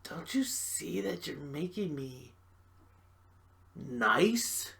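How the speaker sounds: low, near-whispered plea; hushed confession. Acted. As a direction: drop to a hush, as if admitting something awful.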